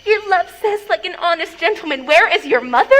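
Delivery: mimicking the nurse's words, exasperated; mocking imitation. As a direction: parrot her reply back scornfully. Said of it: "How oddly thou repliest".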